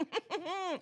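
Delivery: high, soft put-on chuckle; imitated sly chuckle. Host mimics him hearing he's outnumbered, sly chuckle. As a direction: titter slyly, mock-smug.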